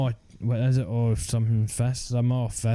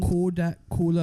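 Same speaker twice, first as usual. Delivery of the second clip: put-on higher Geordie accent on Kodak Colour; mock Geordie accent; 6 semitones higher than usual. Showing a mate the Geordie phrase, mock Geordie accent. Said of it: "you're meant to say Kodak Colour Gold".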